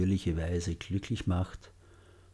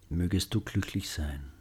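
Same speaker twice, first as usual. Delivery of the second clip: softly spoken loving wish; gentle and loving; 5 dB quieter than usual. Shown as a demonstration. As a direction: say it tenderly to a loved one. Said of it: "Wiederholen Sie die Sätze sanft und liebevoll".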